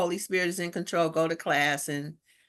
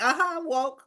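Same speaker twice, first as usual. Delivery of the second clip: mock sleepy reply; 7 semitones higher than usual. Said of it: "She like".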